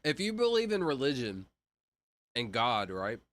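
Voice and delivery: talking with a mouth full; speaking around a mouthful of food. Real, not acted. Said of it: "I don't like talking with my mouth full".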